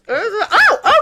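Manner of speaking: high, loud flustered stammer; startled near-break. Retold or imitated. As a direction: imitate an actor caught off guard. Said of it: "almost breaks character, goes".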